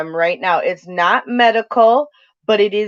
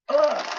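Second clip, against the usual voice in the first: higher-pitched retold "ugh"; imitated groan; 7 semitones higher, 4 dB quieter than usual. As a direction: give a short quoted groan of exasperation. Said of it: "she was like".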